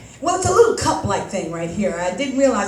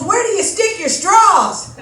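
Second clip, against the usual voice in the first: put-on curious kid; 7 semitones higher, 4 dB louder, slower than usual. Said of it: "He goes".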